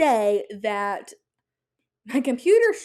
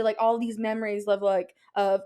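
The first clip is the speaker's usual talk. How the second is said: excited stuttering. Real, not acted. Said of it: "I'm stuttering 'cause I'm so excited".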